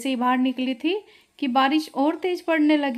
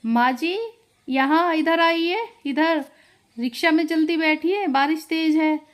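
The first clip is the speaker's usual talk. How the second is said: calling out; 5 semitones higher, 3 dB louder than usual. Acted. Calling mother-in-law from the rickshaw.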